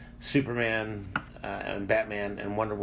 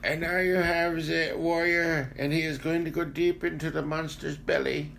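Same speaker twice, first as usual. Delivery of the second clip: Werner Herzog impression; 6 semitones higher than usual. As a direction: intone it like a grave documentary voice. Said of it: "'cause Werner Herzog is a very old German man".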